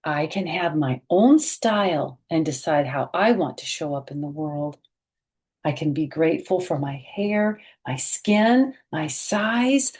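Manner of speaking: bright, expressive picture-book read-aloud; reading to children. A narrator's reading. Teacher reading a picture book aloud to children, expressive.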